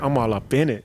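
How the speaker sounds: cocky, punchy delivery; swaggering catchphrase. Shown as a demonstration. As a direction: sell it like a street hustler. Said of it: "See how I did that?".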